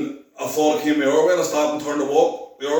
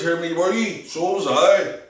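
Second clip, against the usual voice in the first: higher-pitched retold astonishment; amazed recognition; 5 semitones higher, slower than usual. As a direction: lift the pitch in startled recognition. Retold startled reply to the stranger.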